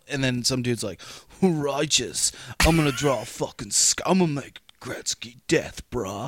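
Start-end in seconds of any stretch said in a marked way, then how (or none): 1.4-6.3 put-on lower, laid-back SoCal surfer dude accent; Californian accent. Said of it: "you gotta do a Californian accent".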